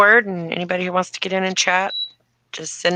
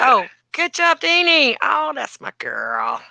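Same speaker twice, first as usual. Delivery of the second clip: 1 high praise voice; 9 semitones higher, slower than usual. Real, not acted.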